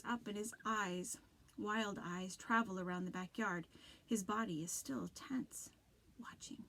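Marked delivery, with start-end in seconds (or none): 6.2-6.6 breathy whisper, very soft; a haunted whisper of one word. A narrator's reading. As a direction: barely voice it, eerie. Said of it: "he whispers".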